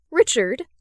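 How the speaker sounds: urgent name call; sharp insistent calling out. Acted. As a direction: demand to be heard. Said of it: "voice is insistent, demanding to be heard".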